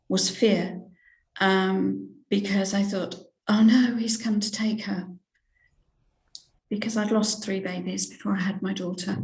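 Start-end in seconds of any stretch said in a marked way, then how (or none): 3.5-5.1 frightened whisper. Retold or imitated. Retold panicked thought seeing Jesus.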